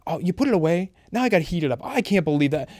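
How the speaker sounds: imitating wife. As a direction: lightly voice the wife's nagging about the spaghetti. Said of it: "she's going".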